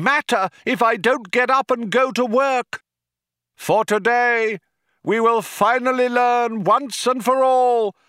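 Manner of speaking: high, ringing orator's voice; sustained grand speech to a crowd, pitched high; crying out. A narrator's reading. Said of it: "cried the man".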